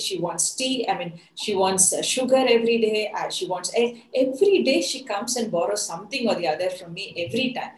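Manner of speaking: a hammed-up huffy complaint, pitch jumping up; indignant rant. Wife fuming to herself about the stingy neighbor, indignant. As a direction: vent about the borrowing neighbor, half-mock. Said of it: "she's even more angry".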